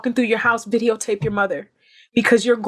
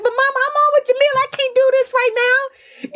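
whiny younger self; 3 dB louder than usual. Retold or imitated. Daughter replays protesting to her mom mid-call, high and whiny. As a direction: play your younger self whining at mom. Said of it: "And I'm like".

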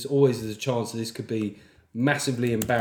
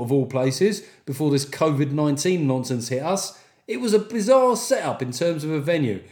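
lively put-on Cockney; Cockney accent. Podcaster voicing a listener's review, playful Cockney. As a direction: play up a chatty Cockney accent. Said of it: "sounds like a Cockney to me".

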